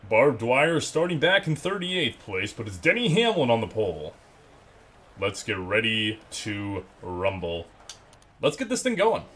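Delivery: slow, booming ring announcer; fighting game announcer. Shown as a demonstration. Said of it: "I can use my announcer voice if you would like".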